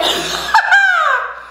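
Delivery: high-pitched cackle; high laugh. Real, not acted. Laugh after song.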